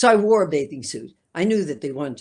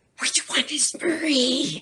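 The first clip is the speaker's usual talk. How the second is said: overloud, very high stage whisper; 10 semitones higher, 3 dB quieter than usual. Recalling her sister asking from the audience at a performance: retelling a loud stage whisper. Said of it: "In a louder than stage whisper".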